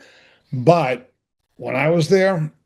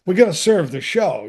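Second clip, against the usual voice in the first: higher-pitched imitation of an excusing boss; imitated apologetic boss; 5 semitones higher than usual. Boss breaking bad news to actor, mildly apologetic.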